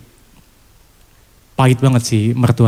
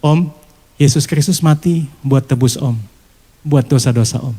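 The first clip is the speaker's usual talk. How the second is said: gentle reply. Retold or imitated. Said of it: "Saya cuma bilang begini".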